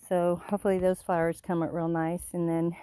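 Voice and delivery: breathless from the uphill walk; puffing between words after the climb; out of breath. Real, not acted. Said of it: "I'm out of breath".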